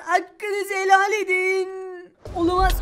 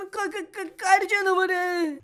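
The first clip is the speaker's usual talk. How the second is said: stuttering the first sound, then slow; scared speechless at the sight; frightened stammer; slower than usual. Acted. Fakir, terrified by the snow monster, stammers its name.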